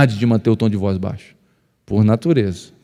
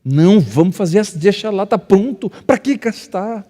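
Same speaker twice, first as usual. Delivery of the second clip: wife's voice; 9 semitones higher than usual. Retold or imitated. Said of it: "Amor, não".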